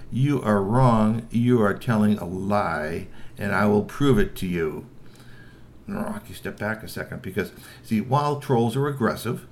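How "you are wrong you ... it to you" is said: slow, firm, measured troll speech; firm troll reply. Acted. Strongbones answering Rocky in perfect troll, slow and firm. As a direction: speak slowly, squaring up. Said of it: "said in perfect troll".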